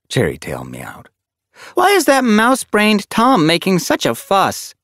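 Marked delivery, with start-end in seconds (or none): 1.7-4.7 loud, high-pitched irritated complaint; peeved and emphatic; grumbling. A narrator's reading. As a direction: grumble crossly about being startled. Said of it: "Sparrow Pelt grumbled".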